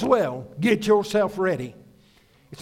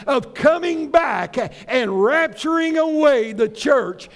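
raised, emphatic preacher's voice; forceful preaching; 3 semitones higher, 3 dB louder than usual. Acted. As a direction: preach it with drive, pitch lifted, punching key words.

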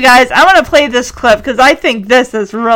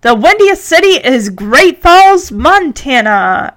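slow, showy reveal, higher at the start; radio announcer; 4 semitones higher, slower than usual. Acted. Announcer reveals the correct city, showily drawn out. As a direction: draw out the answer for the listeners.

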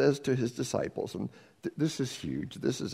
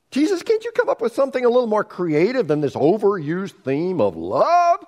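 louder, dismissive complaint; unimpressed disciples; 7 semitones higher, 6 dB louder than usual. Retold or imitated. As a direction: scoff at it like it's old news. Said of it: "they probably thought".

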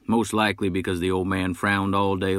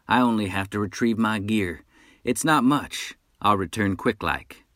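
a higher, louder cocky wolf hunter's voice; boastful hunter; 4 semitones higher, 3 dB louder than usual. Acted. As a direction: brag like a swaggering frontier hunter. Nash promises to return.

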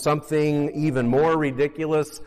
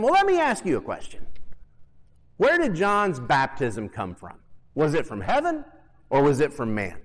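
wry teasing counter-question; sarcastic Jesus. Acted. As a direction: turn the question back with a smirk. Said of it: "hear the sarcasm in his voice".

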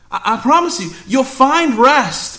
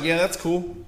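dismissive shrug; 4 semitones lower, 11 dB quieter than usual. Retold or imitated. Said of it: "You're like".

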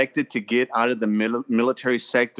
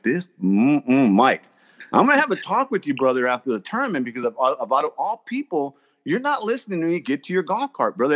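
half-joking telling-off, pitched up; mock scolding; 2 semitones higher than usual. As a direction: chew him out, but lightly. Scolding Mike for ignoring announcement.

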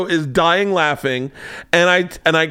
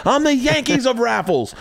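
1 boast with a laugh; 9 semitones higher than usual. Retold or imitated.

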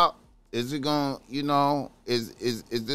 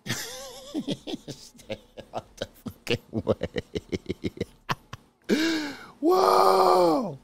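laughing; 12 semitones higher, much slower than usual. Real, not acted. Laughing at the clip.

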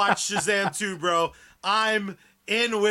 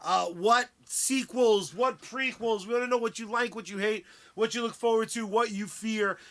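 showman's announcement; ringmaster. Acted. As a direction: roll it out like a circus host. Announcer call to audience.

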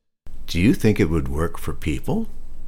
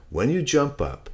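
teacher pig voice; 9 semitones higher than usual. Acted.

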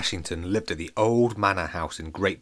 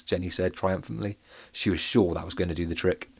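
ordinary delivery

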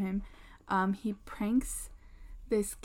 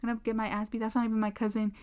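imitated freak-out; faster than usual. Pranked kid fears the police, imitated freaking out. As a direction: act out a kid protesting in a mild panic. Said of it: "the kid literally starts freaking out".

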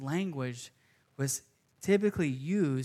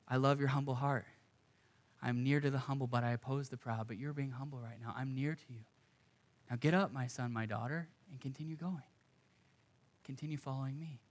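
softer, gentle reassurance; tender voice of God; 3 semitones lower, 6 dB quieter than usual. Acted. Preacher voicing God comforting a humble sinner, soft and tender. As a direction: soothe the humble one, easing down.

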